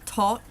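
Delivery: "tot" with a dental t for th; Irish-style thought as "tot". Shown as a demonstration. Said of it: "we've got that dental T".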